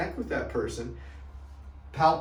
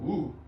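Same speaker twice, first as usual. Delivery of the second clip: concerned ooh; 3 semitones higher than usual. Shown as a demonstration. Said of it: "I'll come in and I'll go".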